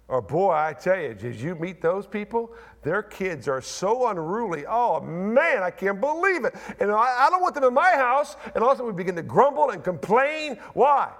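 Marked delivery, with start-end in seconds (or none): 0.2-8.4 gossiping churchgoer. Retold or imitated. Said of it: "what's the first thing we do".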